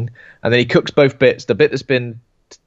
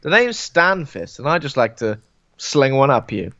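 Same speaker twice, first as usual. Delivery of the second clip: sleazy character voice; slower than usual. Pretend.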